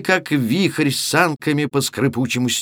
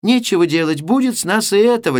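put-on higher, quick girlish prattle; babbling; 7 semitones higher, faster than usual. A narrator's reading. Oksana settling for the one sack, quick girlish babble. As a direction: rattle it off lightly. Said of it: "лепетала Оксана".

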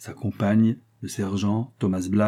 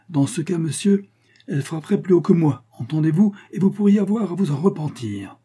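higher-pitched indignant warning; barely contained irritation; 8 semitones higher, 3 dB louder than usual. A narrator's reading. Astronomer threatens the lieutenant over a hoax, barely contained irritation. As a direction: raise the pitch, irritation breaking through. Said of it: "avec l'accent d'une irritation mal contenue".

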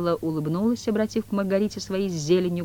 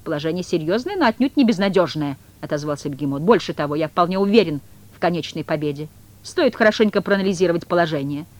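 louder, self-assured cat; cat's confident voice; 5 dB louder than usual. Acted. The cat reassuring Koroviev about the game, confident. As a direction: boast calmly of victory.

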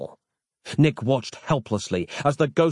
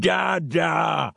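put-on man-child calling happily; man-child greets his father; glad childlike cry; 4 semitones higher than usual. A narrator's reading. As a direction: call out joyfully to father. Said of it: "cried Duncan, smiling".

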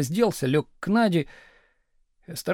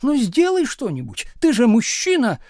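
higher, louder reproach; demanding cry; 7 semitones higher, 6 dB louder than usual. A narrator's reading. Wife demanding husband act like a man, louder. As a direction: push him, demand it.

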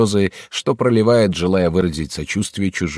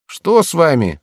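голос слуги; 9 semitones higher, 5 dB louder than usual. Acted. Слуга спрашивает хозяина.

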